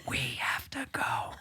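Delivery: urgent hushed whisper; wife whispering. Retold or imitated. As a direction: whisper to hurry him out. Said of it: "Even his wife is whispering now".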